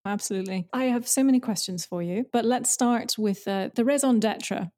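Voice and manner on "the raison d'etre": slow, put-on French accent. Shown as a demonstration. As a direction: say it with a self-mocking French accent. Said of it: "never a good idea for a Scottish person to do a French accent".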